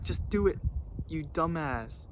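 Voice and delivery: lightly voiced fed-up coworker; imitating angry partner. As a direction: replay the partner's irritated dismissal. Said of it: "'Cause he was mad".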